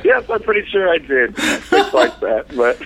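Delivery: hoarse, worn-out voice from screaming; raspy voice of a heavy smoker; lost voice. Real, not acted. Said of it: "I sound like a twenty-year smoker".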